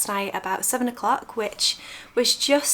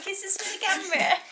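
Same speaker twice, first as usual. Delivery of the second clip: squeaky pet-talk greeting; high cooing pet voice; 11 semitones higher than usual. Real, not acted. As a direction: coo at them like they're babies. Cooing cat to camera.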